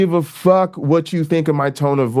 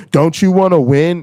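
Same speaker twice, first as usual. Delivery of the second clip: mocking quote; 4 semitones higher, 4 dB louder than usual. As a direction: sneer it back as their line. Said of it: "That's how they".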